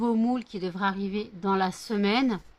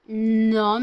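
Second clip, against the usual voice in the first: loud protest; 2 semitones higher, 9 dB louder than usual. Real, not acted. Pushing the dog away.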